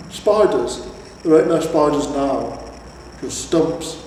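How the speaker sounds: lightly voiced troll scoffing; scornful troll. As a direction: brush it off as a grumpy troll. Troll answers louder.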